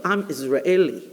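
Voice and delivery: ordinary talk, nothing marked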